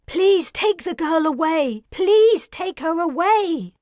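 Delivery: high, loud pleading cry; desperate plea. Acted. Wilder begging her captors to spare the girl, desperate loud plea. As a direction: beg them to take the girl away. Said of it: "She sucked air before exclaiming".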